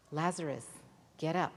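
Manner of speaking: Jesus commanding Lazarus to rise; commanding call. Acted. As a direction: call him out of the tomb. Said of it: "Jesus said".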